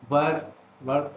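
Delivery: chopped syllable drill. Shown as a demonstration. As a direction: sound out वर, वर from यूनिवर्सिटी. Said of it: "चिन लगाकर बोले यू".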